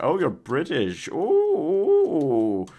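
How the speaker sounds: hammed-up high posh English, slow; mock posh British accent. Streamer mocking Americans doing a posh British accent. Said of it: "They'd be like".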